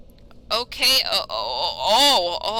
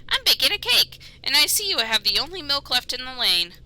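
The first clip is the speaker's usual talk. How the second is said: higher chirpy rabbit; 4 semitones higher than usual. Acted. Parsnip voice.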